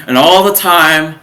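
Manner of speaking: ALL THE TIME stretched out loud and high; emphatic. Retold or imitated. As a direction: lean hard on "all the time". Emphatic build into panic story.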